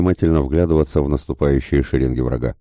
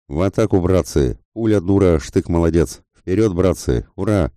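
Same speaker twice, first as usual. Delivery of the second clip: higher, urgent call to charge; rallying battle cry; 3 semitones higher than usual. Acted. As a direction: rouse the troops forward. Suvorov rallies troops to attack. (боевой клич, призыв в атаку)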